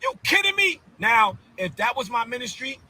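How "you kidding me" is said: incredulous. Real, not acted. Outraged disbelief.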